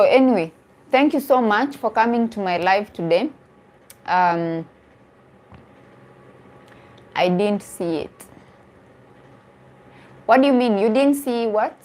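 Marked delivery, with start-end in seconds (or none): none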